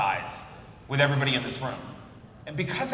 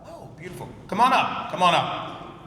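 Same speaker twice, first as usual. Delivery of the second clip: game show host. Pretend. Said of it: "a Price is Right style presentation".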